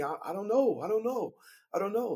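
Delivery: mock panicked stammer; panicked I don't know. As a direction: sound rattled and confused. Panicked answers to the cops.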